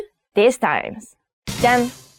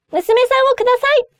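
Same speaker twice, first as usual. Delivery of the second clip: much higher, fast pleading voice; nervous suitor; 13 semitones higher, much faster than usual. Acted. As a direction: beg the father for his daughter. Suitor asking for daughter's hand.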